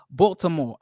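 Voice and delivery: "Baltimore" in a rough Baltimore accent; attempted Baltimore accent. Shown as a demonstration. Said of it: "I cannot do a Baltimore accent".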